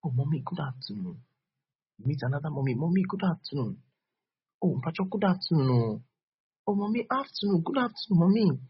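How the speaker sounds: put-on high, bright childlike greeting voice. Preacher acting a childlike greeter, high and eager. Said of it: "Be childlike".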